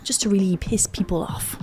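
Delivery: snarky whispered aside. Real, not acted. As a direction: whisper it behind your hand.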